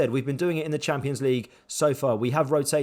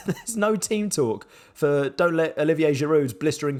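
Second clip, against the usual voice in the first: chuckling through the words; rueful chuckle; laughing. Real, not acted. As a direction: laugh while making the point. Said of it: "I'm laughing".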